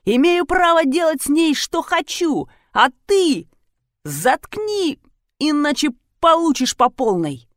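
raging yell. A narrator's reading. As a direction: shout him down. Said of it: "заорал Юдин".

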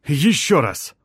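high effort shout, ещё punched; straining call. A narrator's reading. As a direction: heave and shout it. Lifting slab, urging effort.

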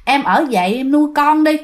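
lightly acted sulky plea to a wife; jealous sulking. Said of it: "là cái kiểu giận hờn, hờn lẫy, hờn ghen". (giả giọng chồng hờn ghen, dỗi nhẹ)

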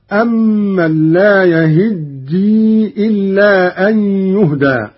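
measured tajweed chant, slow; Quran recitation. Acted. Teacher reciting the verse for students, measured chant.

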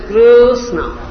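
"Krishna" in two syllables, first one drawn out; two distinct syllables. Shown as a demonstration. Teacher showing Krishna's two syllables, measured demonstration. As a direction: stretch the first syllable of "Krishna", then land the second. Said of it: "He is always uttering two syllables".

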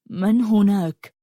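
a resonant voice cutting through darkness; mellow deep voice. A narrator's reading. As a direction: cellmate calling out slowly into the dark. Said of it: "شق صوته الرخيم الظلام".

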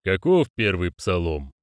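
slow, solemn summons; measured ceremonial demand; demanding hollow voice. Acted. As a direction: call them to order slowly. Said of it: "требовательно спросил гулкий голос".

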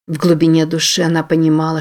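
ordinary delivery, nothing marked

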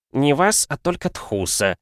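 a hint of grumpy correction; mild grouchy mutter-free correction; grumbling. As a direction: correct her sullenly. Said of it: "ворчливо поправил Ксарберус".

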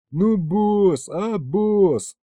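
high, loud pleading whine; whining again. Acted. Aristofan whining to the boss to be let in. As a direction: whine it like a begging child. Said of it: "снова заныл Аристофан".

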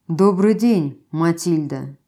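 cool. Acted. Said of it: "Голос был весьма прохладен".

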